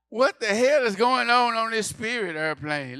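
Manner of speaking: loud, high, indignant yell; hammed-up outrage; outraged. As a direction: demand answers from the crew. Outraged reaction retold on stage.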